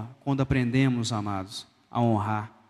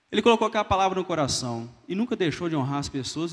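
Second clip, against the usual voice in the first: usual speaking voice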